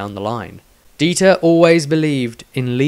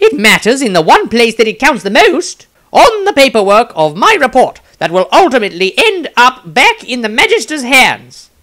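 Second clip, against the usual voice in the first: smiling wizard; 11 semitones higher, 7 dB louder than usual. Acted. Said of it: "Maestro smiled and replied".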